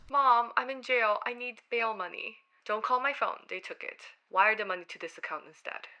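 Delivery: put-on panicked child begging on phone; desperate muffled plea for bail money; tearful muffled scam call.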